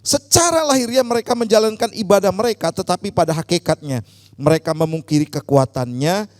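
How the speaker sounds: loud, forceful declamation of Bible verses; projected, emphatic reading aloud; loud scripture reading. Real, not acted. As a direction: lead the congregation reading out in a strong voice. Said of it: "dengan suara yang keras".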